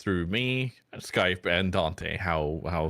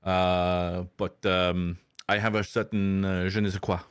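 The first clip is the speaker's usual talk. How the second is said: mock French accent. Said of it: "mangling ... a French accent".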